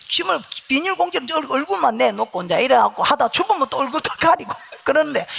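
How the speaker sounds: ordinary delivery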